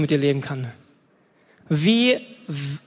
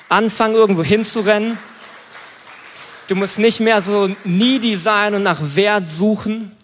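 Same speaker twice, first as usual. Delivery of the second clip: raised, louder preacher's voice; emphatic preaching; 3 semitones higher, 5 dB louder than usual. Real, not acted. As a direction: press it on the congregation with force. Preaches at full force.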